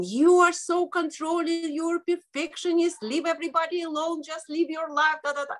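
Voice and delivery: high, scolding imitation voice; high-pitched inner voice. Voice in her head scolding her for controlling, high-pitched. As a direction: nag in a high voice, trailing into da-da. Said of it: "very high pitch".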